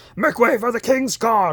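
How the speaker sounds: mock shrill yell, very high and loud. Talking about the London Costco, imitating a guard yelling to make way. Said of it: "they kind of say it more yelling".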